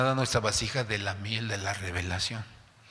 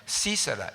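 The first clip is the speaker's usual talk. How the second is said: Sísara, its first I clearly accented; stress on first syllable. Shown as a demonstration. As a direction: set the name Sísara apart, stressing "Sí". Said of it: "con acento en la I". (Sísara, marcando el acento en la primera I)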